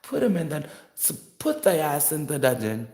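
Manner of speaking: loud, laughing-edged mock decree; hammed-up loud command; switched-up loud voice. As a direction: keep booming the sentence at them. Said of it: "I even switched my voice up".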